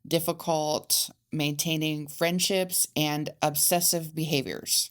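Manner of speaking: flat robotic reading, like a machine. Real, not acted. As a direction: read it like a robot, no feeling. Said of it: "You just read that like a robot".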